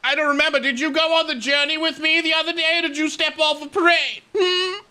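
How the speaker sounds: high, loud, huffy commander voice; indignant admiral. Acted. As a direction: play a pompous admiral scolding his crew. Admiral character in game.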